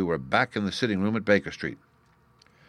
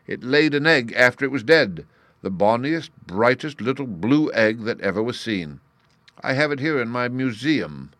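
lightly dramatic, raised voice; higher and emphatic, with a showman's relish; detective revealing his prize; 6 semitones higher, 7 dB louder than usual. A narrator's reading. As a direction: savour the astonishing reveal.

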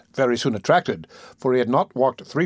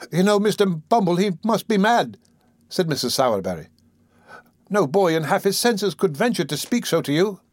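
alarmed woman; 6 semitones higher than usual. Acted. Mrs Sowerberry voiced.

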